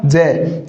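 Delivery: जय said low as the lone "je" sound; syllable shown. Shown as a demonstration. Teacher isolating the middle sound for students, low "je" for जय. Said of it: "इसका उच्चारण जय होगा".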